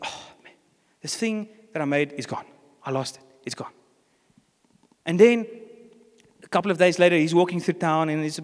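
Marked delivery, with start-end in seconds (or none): 0.0-3.7 low, hushed, deflated lament; dejected boy. Acted. Boy home that evening after losing his toy boat, dejected. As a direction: sigh it out softly, nearly whispering the loss.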